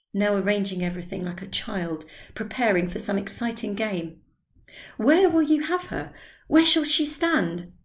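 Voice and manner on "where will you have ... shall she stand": high, loud, eager questions; hammed-up excitement; bustling enthusiasm. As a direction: fuss like a child before a game. Drioli fussing like child.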